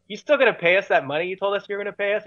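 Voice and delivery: high, quick mock insistence; retold insistent question. Band member to sound guy about money, retold insistence. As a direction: press for an answer in a hurry, acted out.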